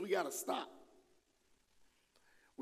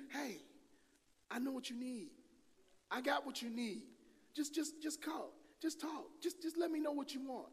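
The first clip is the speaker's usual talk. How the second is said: higher and softer, a sly coaxing whisper-like offer; coaxing spirit voice; 8 semitones higher, 6 dB quieter than usual. Acted. Preacher voices the spirit luring someone, soft and coaxing. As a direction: purr the offer like a tempter.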